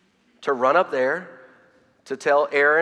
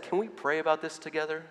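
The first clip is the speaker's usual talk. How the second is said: softer, gentle question; calm invitation; 8 dB quieter than usual. Retold or imitated. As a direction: invite the child gently to pray. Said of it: "we stopped and calmly said".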